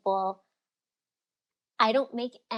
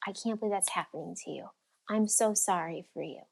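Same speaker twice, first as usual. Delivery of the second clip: mock sympathy; 5 dB quieter than usual. Shown as a demonstration. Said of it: "talk to them in sympathy".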